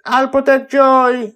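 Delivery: high, loud yell from across the deck. A narrator's reading. Charlie calls from somewhere amid falling meteors, yelling. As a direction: call it out over the danger. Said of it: "I hear Charlie yelling from somewhere".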